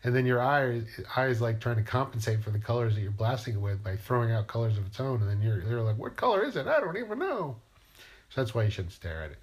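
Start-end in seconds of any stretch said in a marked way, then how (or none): 6.0-7.6 high, dazed and lost, squeaky confusion; bewildered. Retold or imitated. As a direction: play someone baffled and blinded by the sun. Dazed by staring at the sun.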